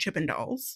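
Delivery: breathy, whispered Utah accent. Recapping a party scene, saying a word in a Utah accent. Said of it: "I'm even doing the Utah accent".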